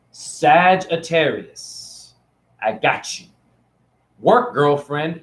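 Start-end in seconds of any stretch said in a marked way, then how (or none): 4.2-5.2 put-on slow, sassy drawl on girlfriend; sassy gay voice. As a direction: stretch it out like a sassy best friend. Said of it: "I'm using my gay voice".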